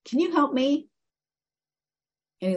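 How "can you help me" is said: higher hushed call from the ground; a small voice begging for help; a frog calling up to a passerby, pleading; tiny frog voice. Acted. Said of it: "he hears a voice saying".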